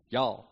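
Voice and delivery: "Y'all" run together as one syllable; one Texan syllable for "Y'all"; Texan contraction. Shown as a demonstration. Preacher repeating the lesson, one-syllable Texan "Y'all". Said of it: "two syllables into one".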